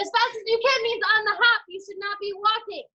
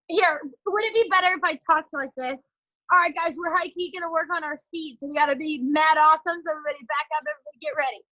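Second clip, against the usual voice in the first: lower-pitched cool-talk act; joking put-on slang voice; 6 semitones lower than usual. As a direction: play at being the slangy cool coach. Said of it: "I don't talk like that".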